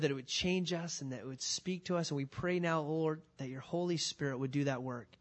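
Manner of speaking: earnest, hushed prayer before the sermon. Acted. Pastor praying over the church before preaching, hushed and earnest.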